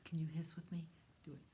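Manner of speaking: whisper. Acted.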